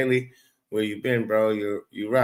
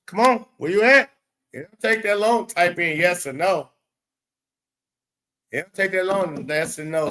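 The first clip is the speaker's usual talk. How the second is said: impatient urging; 5 semitones higher than usual. Real, not acted. Pressing chat to answer.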